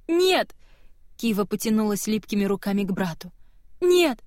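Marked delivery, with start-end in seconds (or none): 0.1-0.5 sharp, high cry of horror; anguished scream. Acted. Girl screaming as her brother dies, high anguished cry. Kiva sees brother dying. 3.8-4.2 high, loud, drawn-out wail; anguished scream. Acted. Sister screaming at dying brother Kerin, high slow wail.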